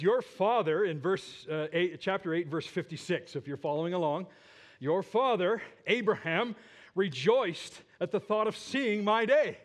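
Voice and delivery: Jesus rebuking the Pharisees, fervent and loud; fervent quoting of Jesus. Acted. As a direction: preach Jesus' words to the Pharisees. Preacher quotes Jesus to Pharisees, rising.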